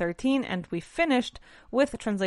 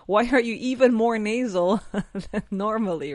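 imagined listener asking; 2 semitones higher, 4 dB louder than usual. Retold or imitated. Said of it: "you may be like".

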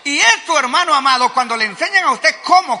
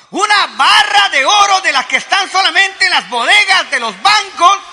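excited preaching; 5 semitones higher than usual. Real, not acted. Preacher excited over the gold.

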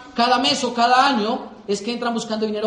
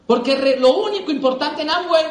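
louder and higher, pushing the point; emphatic; 6 semitones higher, 5 dB louder than usual. Real, not acted. Speaker to the audience, stressing the one thing that matters. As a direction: lean in hard on the key idea.

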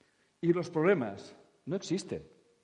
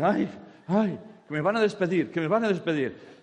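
mock wailing; 5 semitones higher, 8 dB louder than usual. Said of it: "Y tú dices".

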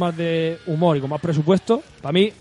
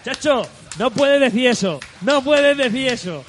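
slow, emphatic, higher-pitched scolding; slow emphatic disbelief; 6 semitones higher, slower than usual. Real, not acted. Telling his friend he can't trash Deadpool, slow and emphatic. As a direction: drag it out like you can't believe he said that.

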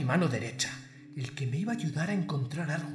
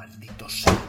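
louder hissed curse, voiceless; snarling punk; 6 dB louder than usual. Acted. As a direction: spit the curse out in a whisper. Boss alone, cursing after betrayal.

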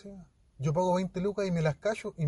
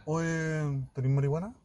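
macho tough-guy voice; 3 dB quieter, slower than usual. Retold or imitated. Retelling how he asked a girl for marijuana, macho. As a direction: ask it with a hint of macho swagger.

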